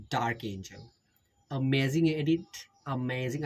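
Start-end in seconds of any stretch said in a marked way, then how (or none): 1.5-3.4 lightly slipping into an Indian accent; accidental Indian accent. Real, not acted. Vlogger praising an edit, accidental Indian accent. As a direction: let a slight Indian accent slip out. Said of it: "I don't know why that accent came out".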